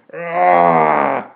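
long, loud roar of fury; high, loud "raah" war cry; furious yell. A narrator's reading. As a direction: let out a drawn-out snarling yell.

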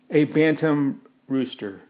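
usual speaking voice

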